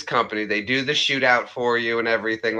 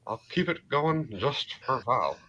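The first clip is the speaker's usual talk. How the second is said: Hank Hill; 3 semitones higher, 6 dB quieter than usual. Acted. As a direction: keep up the cartoon dad impression quietly. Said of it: "doing a little bit of a Hank".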